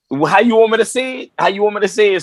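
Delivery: high-pitched imitation of someone suddenly obliging; mock eager compliance. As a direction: act out backing down before the boss. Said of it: "when he noticed, like, it was Doctor Dre".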